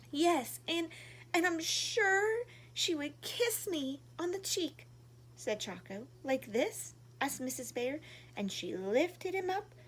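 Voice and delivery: gentle storybook reading voice; reading to children. A narrator's reading. Reading a picture book to young viewers, gently. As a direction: read it warmly like to little kids.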